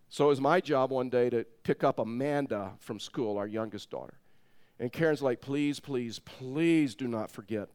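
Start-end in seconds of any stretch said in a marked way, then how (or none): 5.4-7.7 drawn-out, earnest retold begging; mock wifely pleading. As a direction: stretch out the please, imploring. Wife pleading in retold story.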